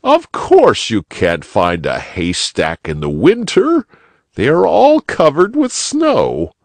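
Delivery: put-on eager old gentleman; old rabbit gentleman. A narrator's reading. Uncle explains.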